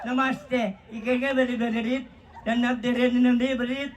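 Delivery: mock Indian accent. Host calls India, answered in a laughing mock Indian accent. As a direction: ham up an Indian accent while giggling. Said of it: "India, India, India!".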